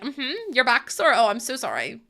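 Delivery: dry mock sympathy; sarcastic sympathy. Answering husband's sore back with dry sarcasm. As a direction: pretend to care, sarcastically. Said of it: "I was like".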